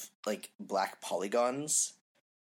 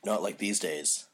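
deadpan the hipster monotone. Acted. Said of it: "like, a monotone hipster voice".

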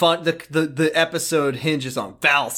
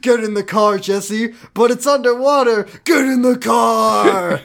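raised voice, last command stretched out; mock urgent; 4 semitones higher, 3 dB louder than usual. Driver urging Jesse into underwater car, mock urgent. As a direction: play an insistent cartoon rescue.

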